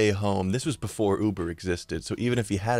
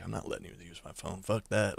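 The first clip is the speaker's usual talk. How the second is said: much softer, a muttered no under the breath; hushed refusal; 3 semitones lower, 10 dB quieter than usual. Retold or imitated. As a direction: keep it low so the driver barely hears. Refusing a shady driver.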